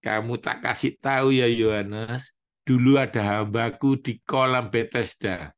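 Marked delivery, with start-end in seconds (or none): none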